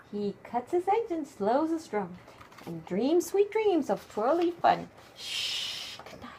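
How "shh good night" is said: soft whispered good night; whispered shh. Real, not acted. Bedtime goodnight to the truck.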